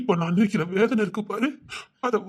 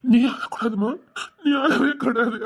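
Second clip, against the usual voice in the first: louder, insistent crying plea; urgent tearful plea; 4 dB louder than usual. Acted. Father pleading louder with his crying daughter. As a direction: press her to stop crying.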